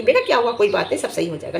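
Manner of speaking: mildly tender, soothing demonstration; lovingly. Shown as a demonstration. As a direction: show how to comfort someone kindly. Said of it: "बोलते हैं ना प्यार से".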